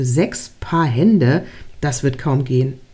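understated disbelief, drawn out and low; doubtful echo. A narrator's reading. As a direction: query it slowly, unconvinced. Angel doubts the order, shaking head.

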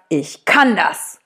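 loud declaration. Shown as a demonstration. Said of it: "ganz laut sagst".

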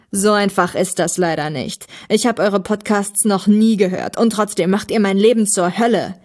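lightly voiced villain, bitterly complaining; aggrieved villain. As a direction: complain like a wronged arch-enemy.

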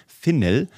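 "Finnel" with both syllables distinct, FIN-NELL; carefully separated "Finnel", as if spelling it; spelling pronunciation. Shown as a demonstration. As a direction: say "Finnel" with a full e in the second syllable. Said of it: "muss man eingeben mit Doppel-N".

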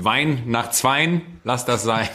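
slow singsong rhyme; slow recited rhyme. Pretend. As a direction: drawl the rhyme out slowly.

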